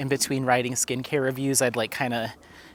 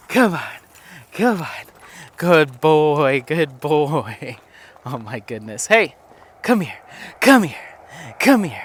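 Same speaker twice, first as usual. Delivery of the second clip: calling the dog. Real, not acted. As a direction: call the dog back, brisk and bright. Calling her dog back.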